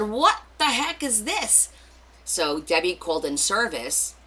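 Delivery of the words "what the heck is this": high, loud, drawn-out mock exclamation; retold indignant surprise. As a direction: act out your baffled outcry, stretching the words. Retells own reaction to hot air.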